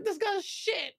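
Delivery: high, scornful dismissal; mock disgust at bad content; scornful inner voice. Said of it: "I'm like".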